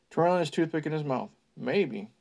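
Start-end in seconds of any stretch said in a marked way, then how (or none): 1.6-2.1 doubtful. Acted. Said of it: "he added doubtfully".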